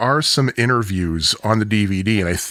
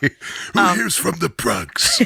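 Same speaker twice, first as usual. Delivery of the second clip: rough, creaky, raspy character voice, pitched a touch higher; 7 semitones higher than usual. Repeating a host's line to the crowd: imitating Chaz Palminteri's voice. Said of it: "hearing things like that in that voice".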